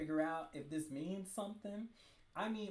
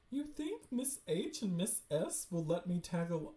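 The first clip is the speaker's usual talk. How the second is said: mistaken character voice. Acted. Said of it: "oh, wait, that's her".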